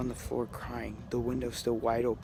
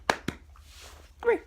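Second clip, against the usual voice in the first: coaxing whisper. Real, not acted. Coaxing the dog.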